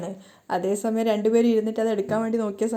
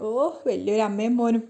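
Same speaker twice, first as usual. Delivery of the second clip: a light sneering aside; mocking. Sachi mocking the mother and son to Revathi, light scorn. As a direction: mutter it with mild scorn. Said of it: "Sachi പരിഹാസത്തോടെ".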